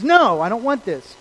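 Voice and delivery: voicing a firm refusal; defiant refusal. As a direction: push back stubbornly, hard on the first word. Acts out Saul refusing God.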